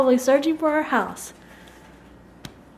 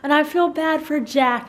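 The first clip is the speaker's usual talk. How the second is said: higher-pitched, lightly voiced upset child; imitating a sad daughter; 4 semitones higher than usual. Daughter missing the dog Trouble, imitated sadness. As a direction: retell it as a sad little girl. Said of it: "I'm just sad about trouble".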